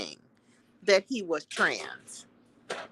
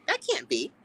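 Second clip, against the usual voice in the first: disbelief; 10 semitones higher, 5 dB quieter than usual. Retold or imitated. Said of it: "but I was like".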